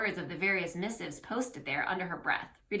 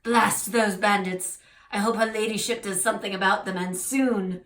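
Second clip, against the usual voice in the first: louder French clerk grumbling; put-on French accent, a touch exasperated; 6 dB louder than usual. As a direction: complain as a French village official. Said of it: "clerk sighs".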